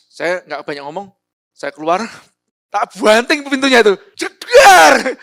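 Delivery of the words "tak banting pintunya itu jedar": much louder and higher, acting out the slam; loud retold door slam. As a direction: shout the bang of the slammed door.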